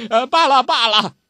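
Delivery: put-on high old man's voice, sometimes dropping to a hush; old urchin complaining and reminiscing; Zhou Botong grumbling. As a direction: gripe about the weak wine like a sulky old drunk. Zhou Botong chatting over wine.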